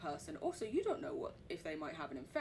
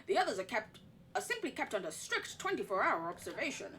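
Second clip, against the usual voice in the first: document read-aloud. Acted. Reading the sanatorium report in a put-on American accent.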